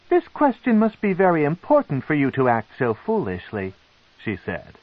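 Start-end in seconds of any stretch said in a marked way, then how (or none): 0.1-3.7 restrained anger. A narrator's reading. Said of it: "held back her angry urges".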